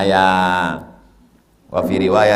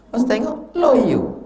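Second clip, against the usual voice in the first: high, laughing jab at limp men; mock weakling; 13 semitones higher, slower than usual. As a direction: tease them as feeble with a laugh. Mocking the weak arrivals.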